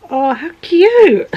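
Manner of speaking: delighted. Real, not acted. Delighted at wrapping.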